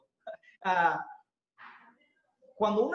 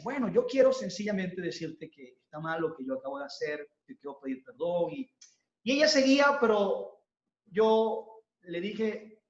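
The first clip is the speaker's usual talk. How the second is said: humble apology; 3 semitones lower than usual. Retold or imitated. Husband apologizes to wife humbly.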